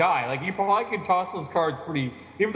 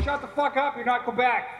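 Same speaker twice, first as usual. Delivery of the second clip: mock outburst; 6 semitones higher than usual. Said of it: "and, like".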